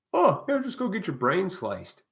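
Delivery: high, loud breezy sarcasm; mock breezy advice. Mocking how doctors once casually pushed lobotomies. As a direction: make it sound like a casual errand.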